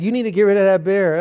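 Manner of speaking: a preacher firmly telling a homeless man to throw out his beer; firm order. Retold or imitated. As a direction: tell him firmly to dump it.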